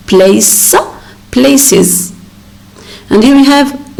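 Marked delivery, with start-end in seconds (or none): 0.1-2.1 "Place" with a hissed s, then "places" as "play-siz"; s then iz ending. Shown as a demonstration. Teacher explaining the rule, "places" ending in iz. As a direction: separate "Place" from "places" to show the iz. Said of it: "it ends with the sound S".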